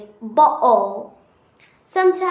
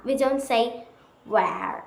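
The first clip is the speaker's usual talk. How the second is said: American accent; 4 dB quieter than usual. Shown as a demonstration.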